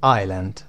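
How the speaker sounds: "Island" said "eye-lund", with no s sound; silent s. Shown as a demonstration. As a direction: drop the s in "Island". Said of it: "اسش خونده نمیشه".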